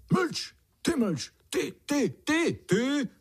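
very high, wailing cries; wailing confused bird. Acted. Confused warbler wails instead of singing. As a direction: wail out the wrong words. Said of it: "Zanaříkala spletená pěnička".

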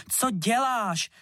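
high, slow shrieked question; shrieking. A narrator's reading. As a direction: shriek at him in shock. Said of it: "zaječela Verunka".

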